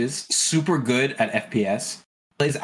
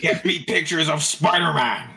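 slow, higher barking editor demand; lightly voiced gruff newspaper boss; J. Jonah Jameson; 4 semitones higher than usual. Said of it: "Jonah Jameson".

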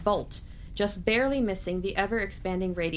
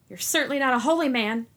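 spat out louder and higher in a different voice; Isaac spitting an accusation at the sorcerer, loud and higher; 6 semitones higher, 7 dB louder than usual. Acted. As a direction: accuse him with contempt, sharp and loud. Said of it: "Isaac spat".

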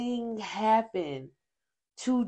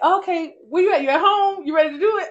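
imitating friend; 8 semitones higher, 4 dB louder than usual. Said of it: "Chrissy's like".

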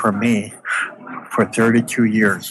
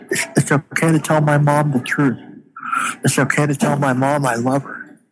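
tearful; 5 semitones higher than usual. Real, not acted. Emotional reunion with his mother.

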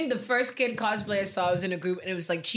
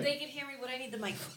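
whispering; 4 semitones higher, 11 dB quieter than usual. Real, not acted. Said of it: "I can still hear you".

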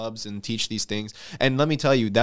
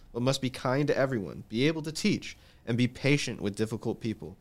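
measured, softer Bible reading; scripture reading; 2 semitones higher, 3 dB quieter than usual. Acted. Host reading Second Timothy to the panel, measured scripture reading. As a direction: read the verses out evenly, lifted a little in pitch.

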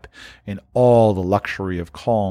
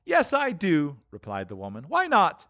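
high, fast and bold; brazen woman; 7 semitones higher, 6 dB quieter than usual. Acted. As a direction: justify the theft, hard.

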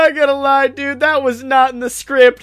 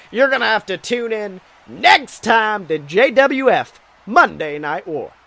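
wrestling announcer. Acted. Announcer closes the show.

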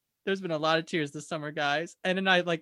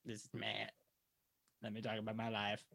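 much lower, softer put-on hick voice; Matilda voice; 8 semitones lower, 9 dB quieter than usual. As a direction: drop low and play the hick Matilda. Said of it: "You have to say it in the Matilda voice".

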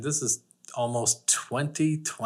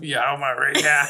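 loud, slow mimicked thug call; mocking imitation of an Austrian tough; 3 semitones higher, 5 dB louder, slower than usual. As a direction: bellow it as a hammed-up Austrian thug. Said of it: "That was an Austrian thug".

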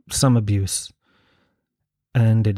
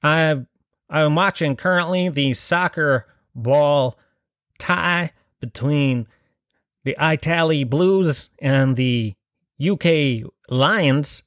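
American reporter voice; much slower than usual. Retold or imitated. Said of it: "he was an American living in Tralee".

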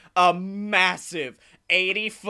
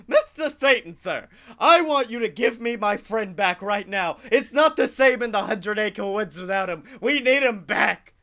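Tigger pleading. Retold or imitated. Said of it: "it's gonna sound like Mad Hatter".

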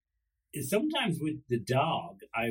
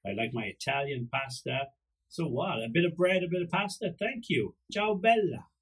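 higher-pitched cheeky dog voice; playful, pitched-up pet character; scheming dog's thoughts; 5 semitones higher than usual. Acted. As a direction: voice a sly dog helping itself. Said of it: "The dog was thinking".

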